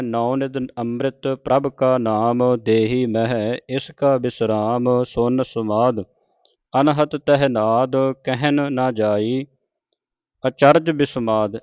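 slow, measured verse reading; scripture recitation. Shown as a demonstration. Teacher reciting Gurbani to the congregation, slow and measured. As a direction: draw out each sacred word.

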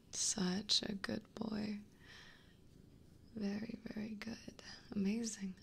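soft, cooing praise; hushed, doting approval; tender praise. Real, not acted. Praising Kevin as a good boy.

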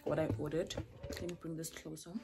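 talking while chewing; words round a mouthful of biltong; chewing noisily. Real, not acted. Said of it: "Guys, sorry I'm chewing".

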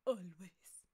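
hushed, melodramatic whisper; dramatic whisper. Acted. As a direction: whisper it like a lovelorn suitor. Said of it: "It's so dramatic".

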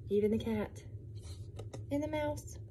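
hushed storybook whisper; secretive reading whisper. Acted. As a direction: whisper it to the children.

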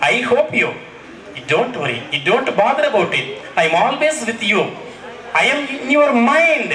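slow, drawn-out words of comfort; spoken slowly as a supportive friend; reassuring friend. Acted. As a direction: reassure slowly, stretching each phrase.

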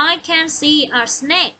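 I can see a snake said word by word; teacher reading an example sentence slowly. Shown as a demonstration. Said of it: "มี snake ไหม".

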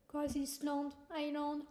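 English game title with a French accent. Real, not acted. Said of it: "mon accent anglais".

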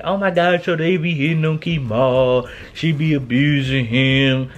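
mock gossip voice; lightly voiced nosy commenter. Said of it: "I swear Sade be mean".

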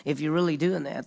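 a hint of a sneering challenge; mild mocking. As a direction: mockers daring Jesus off the cross, lightly taunting. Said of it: "they're making fun of him".

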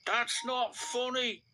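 hissed. A narrator's reading. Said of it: "hissed Henry".

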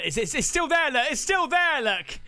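alarmed excitement. Real, not acted. Host spotting it still up there, alarmed excitement. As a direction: point it out urgently, pitch climbing.

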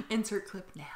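laughing announcement. Real, not acted. Joking to listeners about adding the screaming clip, laughing. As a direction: say it through laughter.

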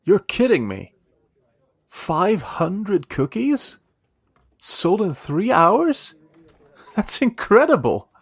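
stunned, can't believe what she's hearing; amazed disbelief. Real, not acted.

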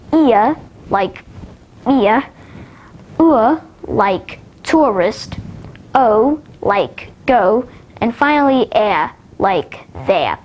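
British-style gliding vowels, r dropped in "air" and "there"; attempted British vowels, sound then example word; British and Australian diphthongs. Shown as a demonstration. Teacher showing extra diphthongs, British-style pronunciation. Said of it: "a few British and Australian ones".

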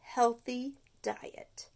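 very slow, forced; reluctant. Acted. Stuart gulping out the dreaded words. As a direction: choke out the words.

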